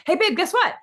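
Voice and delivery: high, loud playful call to husband; teasing wife call. Retold or imitated. Instagram lady calling her husband, playful and high. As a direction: call out to your husband in the other room. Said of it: "she's like".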